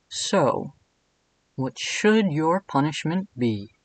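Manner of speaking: slow, teasing purr; flirty Cat King. Acted. Cat King teasing Edwin about his punishment, slow and flirty. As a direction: drawl it out, lightly flirty. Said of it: "my best Lucas Gage voice".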